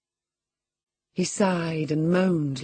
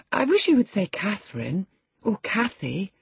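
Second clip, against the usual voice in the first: put-on young lady interrupting; 6 semitones higher than usual. A narrator's reading. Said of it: "interrupted my young lady".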